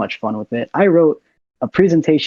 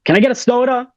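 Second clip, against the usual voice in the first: high, forced mock yell; retold overcorrected yell; 9 semitones higher, faster than usual. Kid told to speak up orders soda, high mock yell. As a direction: imitate a shy kid overshooting into yelling. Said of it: "Okay, don't yell at them".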